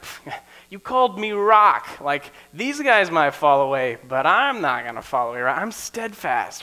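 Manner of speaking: Peter bragging that he'll never fall away; proud boast. Acted. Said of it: "hear the pride in his voice".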